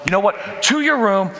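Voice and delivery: a dad yelling a grounding at his son; angry punishment. Acted. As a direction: bark out the punishment. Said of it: "I just go on and on".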